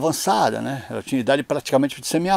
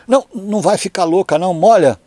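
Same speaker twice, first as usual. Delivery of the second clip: ordem apressando a mãe, voz alta e aguda; insistência encenada; 3 semitones higher, 5 dB louder than usual. Retold or imitated. Filho insiste que a mãe prove. (filho mandão, em tom de relato)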